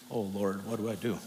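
ordinary talk

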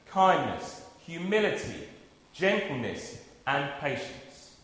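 measured, solemn Bible reading; scripture reading. Acted. Preacher reading Colossians to the congregation, solemn and measured. Reads Colossians passage aloud.

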